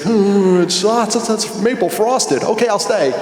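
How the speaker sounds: a playful show of temptation; mock inner debate. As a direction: weigh the maple frosted donut, then give in. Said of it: "one of those internal debates".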